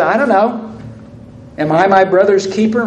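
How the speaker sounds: a touch of a shrug in the voice; mildly flippant denial. Acted. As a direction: toss it off, not caring. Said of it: "Real flippant answer".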